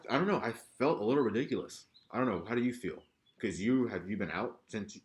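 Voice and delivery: talking through a surgical mask; muffled, as if behind cloth. Real, not acted. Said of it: "If I sound a little muffled".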